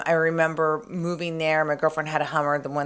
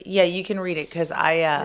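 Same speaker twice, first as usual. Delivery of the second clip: hoarse voice. Real, not acted. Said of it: "You're losing your voice".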